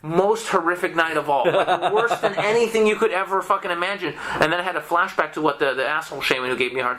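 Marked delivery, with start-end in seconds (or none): 0.0-4.1 chuckling while telling the worst part; amused disbelief, laughing as he talks; laughing through it. Real, not acted. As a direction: let a laugh run under the words. Laughing while recalling worst night.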